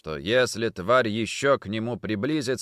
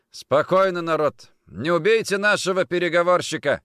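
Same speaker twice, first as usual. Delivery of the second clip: smirking; 8 semitones higher, 6 dB louder than usual. Acted. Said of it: "ухмыльнулся Йорван".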